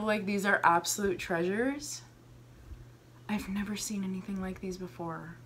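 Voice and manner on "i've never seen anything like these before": fast, hushed whisper, much softer; awed whisper. Real, not acted. Marvelling at earrings, whispering in awe. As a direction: whisper it like a secret treasure.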